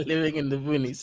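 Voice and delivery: amused echo, laughing on the words; quiet laughing repeat of someone's jibe. Real, not acted.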